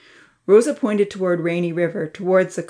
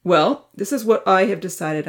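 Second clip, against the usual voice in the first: firm; 2 semitones higher, 5 dB louder than usual. Acted. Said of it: "Uncle Louis said firmly".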